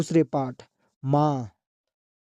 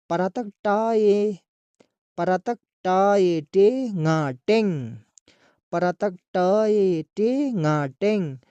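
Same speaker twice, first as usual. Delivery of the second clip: slow spelling-out; 3 semitones higher, slower than usual. Shown as a demonstration. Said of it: "teacher spelling out syllables".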